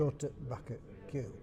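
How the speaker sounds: "Go to back at Q" with no T sound, glottal stop instead; Yorkshire glottal stop. Shown as a demonstration. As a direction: dialect chairman demonstrating glottal stops. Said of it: "it's not a T sound unless it's in front of a vowel".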